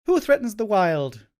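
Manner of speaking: loud, slow, booming unit call; unit voice line. Pretend. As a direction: boom it out like a game unit. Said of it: "I can do the death sound very well".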